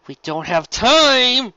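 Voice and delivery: high, loud, slow cry; urgent shout; interrupting shout. Acted. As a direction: cut in with a loud yell. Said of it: "Lyra's voice interrupted".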